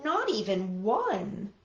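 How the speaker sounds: mildly sad. Acted. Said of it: "said Toad sadly".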